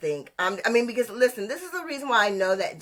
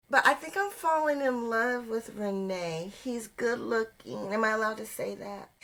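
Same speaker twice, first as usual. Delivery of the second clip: hushed, softer admission of a crush; soft confession; 7 dB quieter than usual. Real, not acted. Admitting a crush on contestant Renee, soft confession. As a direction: confess it softly, as if it may not be allowed.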